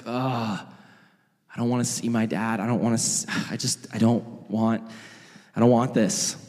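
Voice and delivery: low, reluctant mumbling with a sigh; acted dejection, dragging himself home; defeated. Son dreading facing his dad, defeated. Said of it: "he's defeated, he's broken".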